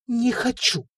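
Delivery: high, near-tearful refusal; trembling whisper. Acted. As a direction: hold back tears. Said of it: "прошептала Людмила трясущимися губами".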